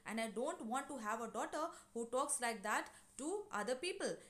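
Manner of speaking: mildly stern cutting-in; firm refusal, lightly acted; severe interruption. Mrs Pearson cutting in on the neighbour, severe. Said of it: "she severely cuts in and says".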